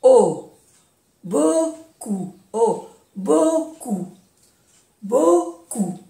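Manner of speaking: "Beaucoup" with a pure long O in bo-; vowels pronounced O. Shown as a demonstration. Teacher drilling the vowel group, O then "Beaucoup" as bo-koo. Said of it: "se pronuncia O".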